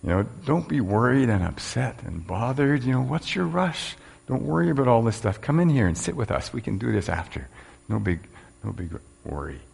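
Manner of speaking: calm her down kindly; mildly voiced soothing Jesus; caring Jesus. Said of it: "Jesus' response is one that's full of care".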